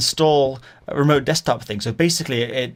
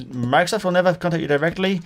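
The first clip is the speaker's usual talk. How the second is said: higher-pitched mock Indian accent; 6 semitones higher than usual. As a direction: recite it as an Indian-accented caller. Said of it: "he definitely had an Indian accent".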